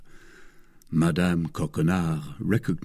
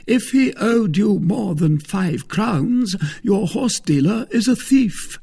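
loud, raised-pitch accusation; indignant Musketeer; 12 semitones higher, 5 dB louder than usual. A narrator's reading. Porthos judges the wife's horse dealer, indignant. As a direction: ring it out with wounded pride.

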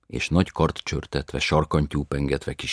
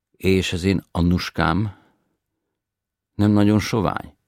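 anxious grandmother; 5 semitones higher, 9 dB louder than usual. A narrator's reading.

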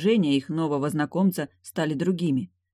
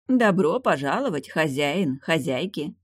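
warm welcome. Acted. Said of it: "поклонились радушно".

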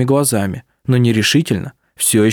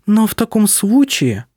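haughty; 9 semitones higher than usual. A narrator's reading. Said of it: "высокомерно добавила она".

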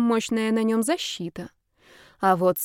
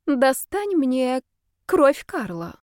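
higher, slowly spelled-out price; slow demand; 5 semitones higher, much slower than usual. A narrator's reading. Witch tells the girl her price, slow and deliberate.

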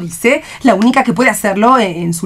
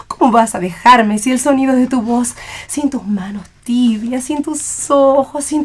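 impassioned declaration; 3 semitones higher than usual. Acted. Mother declaims her love to her daughter Ivona. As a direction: pour out the love speech grandly.

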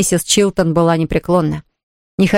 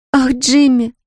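moaned; 6 semitones higher, slower than usual. A narrator's reading. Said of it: "простонала девушка".

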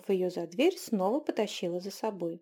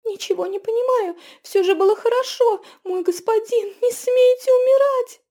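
high, loud sobbing shout; crying out in tears; 14 semitones higher, 11 dB louder than usual. A narrator's reading. Girl begs her dying husband not to die, loud, high, tearful. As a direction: scream it choking on tears. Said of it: "Захлёбываясь слезами, выкрикнула она".

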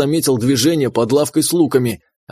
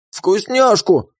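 high, slow, demanding little critter; demanding creature voice; 6 semitones higher, much slower than usual. Acted. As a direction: drag it out like a greedy pet. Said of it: "требовал Жмот".

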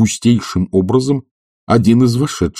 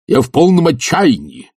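raised, high-pitched exclamation; despairing cry; 10 semitones higher, 4 dB louder than usual. A narrator's reading. Professor answers the committee head, crying out in despair. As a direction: cry out in exasperated despair, not full volume. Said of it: "крикнул Филипп Филиппович".

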